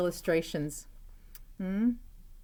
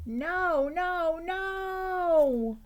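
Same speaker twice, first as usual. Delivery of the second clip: high repeated stern no's; scolding mom; 12 semitones higher, 4 dB louder, much slower than usual. Acted. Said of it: "David's mom always said".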